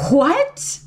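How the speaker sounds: breathless whispered what; stunned whisper. Retold or imitated. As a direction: whisper it in disbelief. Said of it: "And I was like".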